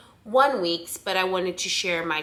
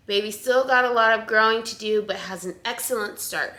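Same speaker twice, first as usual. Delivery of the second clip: slightly winded, catching breath; 2 semitones higher than usual. Real, not acted. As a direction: talk while short of breath. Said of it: "I'm, like, out of breath".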